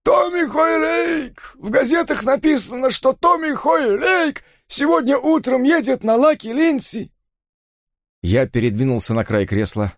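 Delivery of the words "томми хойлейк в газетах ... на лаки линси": high, slow, frantic crying out; frantic panic. Acted. Father panicking about the jockey riding the horse, frantic. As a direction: blurt it all in terror.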